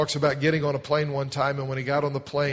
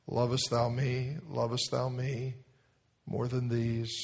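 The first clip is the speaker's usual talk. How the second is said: gentle master's question; 4 dB quieter, slower than usual. Acted.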